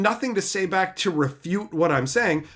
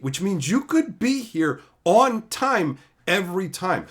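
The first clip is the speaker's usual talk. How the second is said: mildly raised, emphatic rant; retold scolding; 3 semitones higher than usual. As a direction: re-enact telling off a latecomer. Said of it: "I had to yell at a bunch of people".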